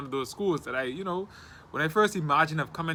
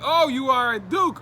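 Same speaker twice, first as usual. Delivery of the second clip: high, louder, drawn-out mock realisation; retold realisation; 8 semitones higher, 6 dB louder than usual. Caller realising it's the Duke campus, retold surprise. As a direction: imitate a caller catching on, slowly and impressed.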